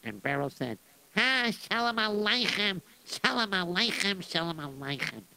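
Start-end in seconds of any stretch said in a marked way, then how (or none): 1.2-5.2 slow, high, welcoming shalom aleichem; warm greeting. Acted. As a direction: greet him warmly, drawing it out. Beryl greets general warmly.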